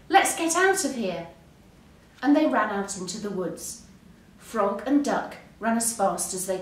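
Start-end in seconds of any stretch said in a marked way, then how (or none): 0.1-1.3 high, urgent call to flee; alarmed shout. A narrator's reading. Frog urges Duck to flee, alarmed shout. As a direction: raise the pitch in mild panic. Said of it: "shouted Frog".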